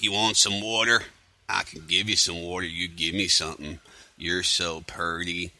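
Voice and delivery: mock country-hick accent; exaggerated hick accent. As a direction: imitate a creepy hick accent. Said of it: "really exaggerated kind of Deliverance kind of accent".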